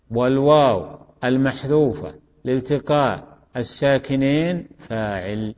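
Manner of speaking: word by word, dropping on the last term; deliberate repetition. Shown as a demonstration. Teacher finishing the repeated parsing, measured and segmented. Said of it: "أعيده آخر مرة".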